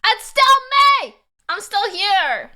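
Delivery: high, loud ghost calling out; ghostly echo voice. Pretend. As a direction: call out like a lingering ghost. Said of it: "I swear I can hear her voice".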